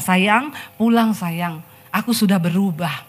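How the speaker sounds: slow, pleading lover's coax; husband begging his wife on WhatsApp, slow and pleading; coaxing plea. Retold or imitated. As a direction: coax her home tenderly. Husband coaxes wife home.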